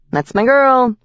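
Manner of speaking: small high pixie, proud. A narrator's reading. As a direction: cheer her on as a tiny pixie. Pixie cheering her on.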